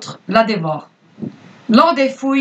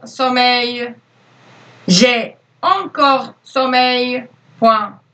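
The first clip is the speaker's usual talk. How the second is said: slow, clear dictation voice; dictating; slower than usual. Acted. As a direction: read it out word by word for pupils. Teacher dictates to pupils.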